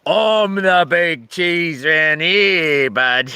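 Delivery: mock boast. Boasting joke about doctor.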